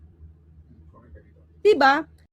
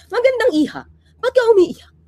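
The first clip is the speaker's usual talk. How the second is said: higher and louder mock cop greeting; mock police officer; 6 semitones higher, 5 dB louder than usual. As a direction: play the friendly officer a bit over the top. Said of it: "kunyari, ako yun". (pulis na kunwaring malambing, medyo malakas)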